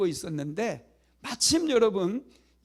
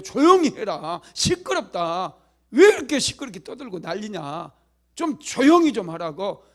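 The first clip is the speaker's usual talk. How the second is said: crowd scolding; 6 dB louder than usual. Acted. Crowd scolds the shouting blind beggar, angry. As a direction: shush the beggar angrily. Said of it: "막 소리 지르는 거예요".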